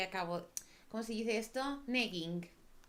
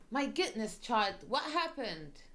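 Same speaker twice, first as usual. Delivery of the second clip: higher, louder, slow kindly priest; concerned priest; 5 semitones higher, 5 dB louder, slower than usual. Acted. Priest finding a hurt girl at the church door, concerned. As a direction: ask gently, alarmed for the child.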